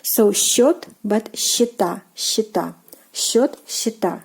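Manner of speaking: счёт with yo, счета with ye and stress on the final A; teacher contrasting the vowels of счёт and счета. Shown as a demonstration. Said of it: "from the singular form is changed into ye".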